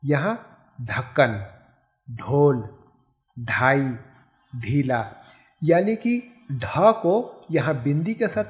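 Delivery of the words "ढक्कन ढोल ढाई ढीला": "ढोल" with a plain aspirated ढ, no flap; each word clearly set apart with a stop ढ; careful pronunciation demo. Shown as a demonstration. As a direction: model "ढक्कन" with a hard breathy ढ. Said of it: "अब यहाँ देखिए".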